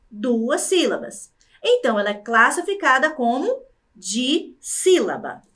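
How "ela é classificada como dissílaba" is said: ordinary talk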